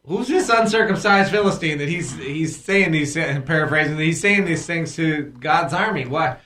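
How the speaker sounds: put-on a shepherd boy scoffing at the giant; indignant David. David scorns Goliath before the army, outraged. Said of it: "and he says".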